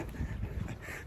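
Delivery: quiet, breathy catch of tears; real stifled sob, mostly breath; choked-up sob. Real, not acted. Hiker overcome while talking about his ordeal, choked-up sob. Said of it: "I'm getting emotional".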